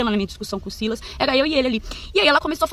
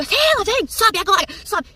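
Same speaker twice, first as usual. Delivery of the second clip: calling out; 8 semitones higher, much slower than usual. Retold or imitated. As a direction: order him upstairs right now. Mother-in-law calling son upstairs.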